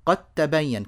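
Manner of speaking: قد تبين run together as "qat-tabayyan"; doubled t from قد into تبين, no d; الدال merged into التاء. Shown as a demonstration. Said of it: "الدال مع التاء". (إدغام دال "قد" في تاء "تبين")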